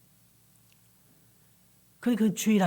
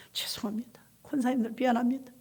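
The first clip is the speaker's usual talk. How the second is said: remorseful whisper; barely voiced, ashamed apology; 3 semitones higher, 7 dB quieter than usual. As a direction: pastor at the hospital bed, whispering sorry. Pastor apologizing to burned deaconesses.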